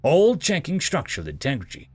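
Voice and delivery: measured, emphatic sci-fi audiobook read; story narration. A narrator's reading. Narrator telling listeners of an augmented human, story narration. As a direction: narrate firmly with deliberate phrase breaks.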